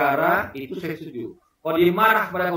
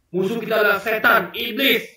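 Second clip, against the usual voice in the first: raised, higher voice mimicking a fiery orator; imitated fiery shouting; 3 semitones higher, 4 dB louder than usual. Politician rallying people against the devil, mock fiery shouting. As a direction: call it out like a rousing speech. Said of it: "orang itu yang kuar-kuar".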